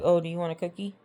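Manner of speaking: mildly mocking, imitating his condescension; imitated patronizing question; condescending. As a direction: talk down to them as if to a child. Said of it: "Very condescending".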